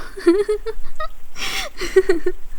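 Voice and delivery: high, drawn-out laugh; amused cackle. Acted. Laughing at being asked if they are real, amused cackle. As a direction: burst into high laughter at the question.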